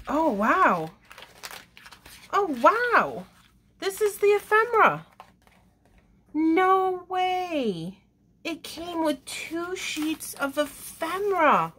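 high, loud, delighted gasping at the find; thrilled squeal. Real, not acted. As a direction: let the excitement burst out, way up high. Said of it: "get too excited".

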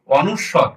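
"অনুস্বর" said distinctly as a model; standard pronunciation. Shown as a demonstration. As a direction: pronounce the letter name "অনুস্বর" carefully for learners. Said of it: "এটার উচ্চারণ হবে".

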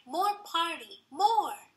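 put-on high, loud toddler demand; crying out. A narrator's reading. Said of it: "He cried".

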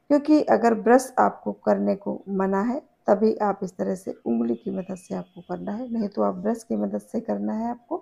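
talking while rubbing teeth; finger in mouth. Real, not acted. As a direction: lips held apart by finger. Seen 4: Finger rubs teeth and gums inside mouth throughout the labelled words.

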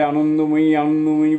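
calling aloud. A narrator's reading. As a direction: lift the voice and call her name. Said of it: "ঠাকুর উচ্চ স্বরে".

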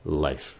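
Life. with a soft breathy f at the end; Life. letting the air out on the f; Life. lips open, f breathed out; final f released. Shown as a demonstration. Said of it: "Cho cái hơi nó ra một tí xíu".

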